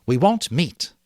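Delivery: high, loud insistence; stubborn hunter. A narrator's reading. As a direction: dig in your heels. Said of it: "Jack flushed".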